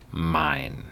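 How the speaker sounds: a hint of a voice from far away; hollow, distant. A narrator's reading. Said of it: "sounded so hollow and distant".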